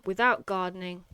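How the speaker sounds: a touch of melodrama; dramatic. Shown as a demonstration. Teacher demonstrating hyperbole in her essay line, mildly dramatic. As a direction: lean into the drama a little. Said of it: "I'm just being a bit dramatic now".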